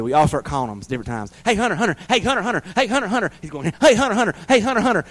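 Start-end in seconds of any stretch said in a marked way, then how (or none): 1.4-3.3 high, sing-song calls to the dog; calling the dog. Retold or imitated. 3.8-5.0 high, sing-song calls to the dog; calling the dog. Retold or imitated.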